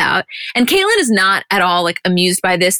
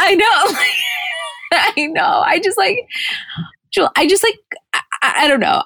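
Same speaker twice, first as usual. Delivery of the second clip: high, breathless laughing talk; words squeezed out through laughter; helpless laughter; laughing hard; 11 semitones higher than usual. Real, not acted. Cracking up over the scene.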